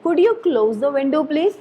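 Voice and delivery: "Could you close the window please", rising on PLEASE; rising polite request. Shown as a demonstration. Teacher modelling a polite request, rising intonation. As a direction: ask politely, lifting the end of "please". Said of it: "rising intonation".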